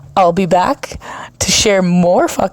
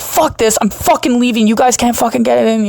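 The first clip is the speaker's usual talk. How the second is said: irate outburst; 6 semitones higher than usual. Retold or imitated. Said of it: "I got kind of fucking irate".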